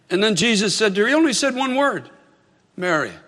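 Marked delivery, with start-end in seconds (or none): 2.8-3.1 compassionate. Retold or imitated. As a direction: say her name gently, with tender assurance. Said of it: "He said it with such compassion".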